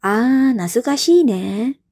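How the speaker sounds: slow, wistful nasukashi ne; teacher voicing B remembering fondly; nostalgic reply. Shown as a demonstration. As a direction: sigh it with fondness. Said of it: "direspons oleh si B".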